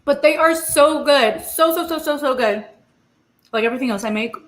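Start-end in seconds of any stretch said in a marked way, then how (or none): 0.0-2.6 raving. Real, not acted. Raving about taste.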